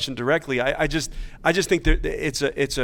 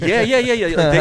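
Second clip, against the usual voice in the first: laughing yeah yeah yeah, high and loud; 8 semitones higher, 10 dB louder than usual. Real, not acted. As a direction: burst out laughing while agreeing. Laughing agreement after joke.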